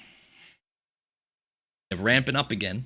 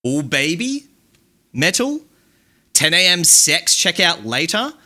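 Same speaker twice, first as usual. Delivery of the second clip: Nathan Genesis impression; 3 semitones higher than usual. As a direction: toss off a loose send-up of another streamer. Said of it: "this is my impression of Nathan Genesis".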